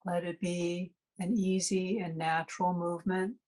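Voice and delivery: calm meditation guide with long, unhurried pauses; guided meditation. Acted. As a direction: ease listeners into relaxation phrase by phrase, leaving space to breathe.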